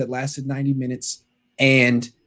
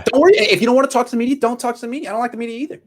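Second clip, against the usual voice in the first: imitating Harbaugh; 10 semitones higher, much faster than usual. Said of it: "It was basically".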